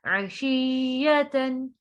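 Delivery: slow, drawn-out tajweed recitation; Quran recitation. Shown as a demonstration. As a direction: recite it with ghunna on the noon. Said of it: "ता नहीं पढ़ेंगे". (धीमी तजवीद वाली तिलावत)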